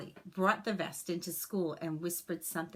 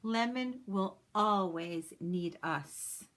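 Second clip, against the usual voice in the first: reassuring; slower than usual. Acted. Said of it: "Miss Lake reassured the students".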